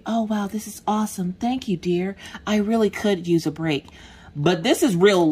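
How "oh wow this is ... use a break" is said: mock grateful wife. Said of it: "in a perfect world, I'd be like".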